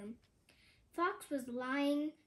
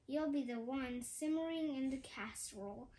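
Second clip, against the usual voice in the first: growled threat. Acted. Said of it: "and growled".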